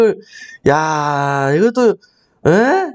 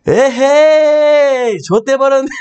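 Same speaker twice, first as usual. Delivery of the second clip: high, loud, drawn-out "에헤이" of dismay; dismayed mother's groan; 8 semitones higher, 4 dB louder, much slower than usual. Retold or imitated. Comedian's mother who dropped the chicken, loud dismayed groan. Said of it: "뭐라는 줄 알아요?".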